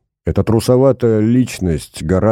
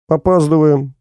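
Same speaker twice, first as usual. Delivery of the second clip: gentle asking; 8 semitones higher than usual. A narrator's reading. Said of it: "ласково спросила физичка".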